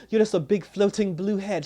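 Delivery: high, loud mocking taunt. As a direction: jeer at her. Taunting quote, loud high far.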